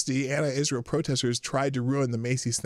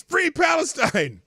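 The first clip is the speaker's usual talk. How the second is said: high, loud, slow mock yell between laughs; imitating the protester's yell while laughing; 6 dB louder, slower than usual. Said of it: "he's yelling in this guy's face".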